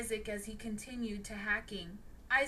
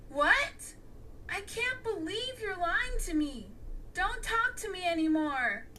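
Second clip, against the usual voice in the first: snapping; 7 semitones higher than usual. A narrator's reading. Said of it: "snapped Maya".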